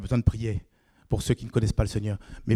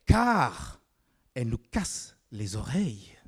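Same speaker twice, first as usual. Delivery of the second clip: whispered grumble; slower than usual. Retold or imitated. Disciples' annoyed motive voiced.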